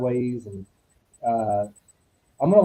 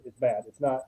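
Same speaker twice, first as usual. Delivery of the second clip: softer, grave retold warning; dead serious; 6 dB quieter than usual. Colleague relaying John's verdict on the thing, dead serious. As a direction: relay it gravely, softly, with heavy pauses. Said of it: "he was very dead serious".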